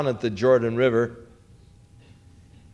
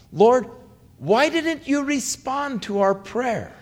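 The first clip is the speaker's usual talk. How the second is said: anguished plea; 3 semitones higher than usual. Retold or imitated. Martha's grief-stricken plea.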